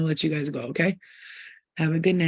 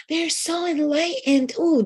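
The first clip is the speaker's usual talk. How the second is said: mock awe; 8 semitones higher, slower than usual. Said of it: "those fucking aliens we look at, like".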